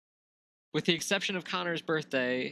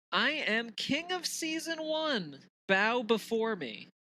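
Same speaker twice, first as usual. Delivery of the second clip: slow, grand, high-pitched mock decree; dark lord; 5 semitones higher, slower than usual. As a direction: proclaim it like a mock tyrant. Gloating champion of the season.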